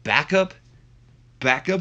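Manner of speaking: high-pitched, rising disbelief; incredulous. Acted. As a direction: throw the word back as a question. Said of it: "He goes".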